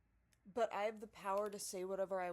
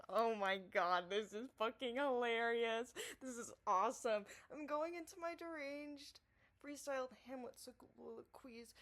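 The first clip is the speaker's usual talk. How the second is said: gleeful. Retold or imitated. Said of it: "I'm literally just sitting there like".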